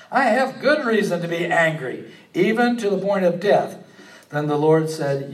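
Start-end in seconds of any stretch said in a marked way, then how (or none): 0.1-3.8 louder, pushing every word, a touch of sulky defiance; emphatic insistence. Acted. Jonah insisting to God he is right, emphatic. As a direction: insist you are right to be angry. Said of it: "most emphatically".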